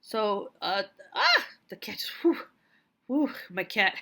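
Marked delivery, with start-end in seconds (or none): 1.1-1.4 sudden high, loud yelp of fright; real startled shriek, cut short; startled scream. Real, not acted. Writer jumped on by her cat, startled yelp. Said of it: "She scared the crap out of me". 2.2-3.3 sharp puff of relief after a scare; startled whew. Real, not acted. Writer scared by her cat, startled whew. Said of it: "She scared the crap out of me".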